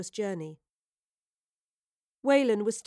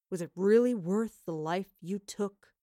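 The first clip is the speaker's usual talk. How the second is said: twist the verbal knife; taunting villain. A narrator's reading.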